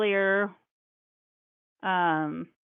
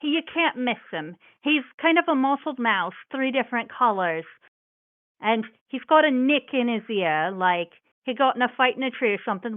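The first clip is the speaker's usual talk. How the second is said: grandmotherly mouse voice. Acted.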